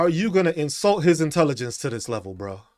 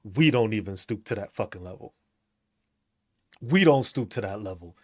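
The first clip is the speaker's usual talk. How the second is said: snooty squirrel; 9 semitones lower, 5 dB quieter than usual. Acted. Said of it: "Just like".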